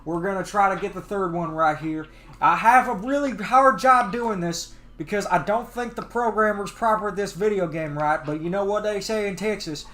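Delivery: easygoing Southern cowboy commentary; Southern accent, lightly put on. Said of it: "I'll be doing the Southern accent".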